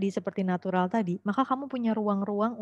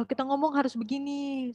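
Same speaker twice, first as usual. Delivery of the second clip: raised, declaimed mock recital; poetry-recital style; 5 semitones higher, 4 dB quieter than usual. Shown as a demonstration. Teacher showing students how not to speak, mock poetry recital. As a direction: declaim it like an overdone poem. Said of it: "Kalian bukan mau baca puisi".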